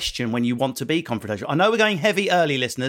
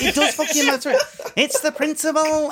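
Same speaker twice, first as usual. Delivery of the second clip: heated outburst; 10 semitones higher than usual. Retold or imitated. Imitating girlfriend's outburst at restaurant.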